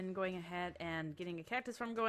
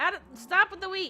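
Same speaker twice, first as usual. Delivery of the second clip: piercing, shrill, very high, full-volume shout; 11 semitones higher, 11 dB louder than usual. Player shooing a cow off their wheat field, yelling. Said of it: "Excuse me for yelling".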